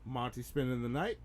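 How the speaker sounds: low, soft muttering to oneself; quiet aside. Pretend. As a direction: keep it down so the guest can't hear.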